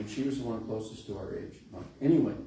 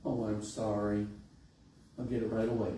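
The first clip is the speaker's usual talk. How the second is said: imitated Mississippi accent, a little lower; South Central Mississippi accent; 4 semitones lower, 4 dB quieter than usual. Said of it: "in that South Central Mississippi accent".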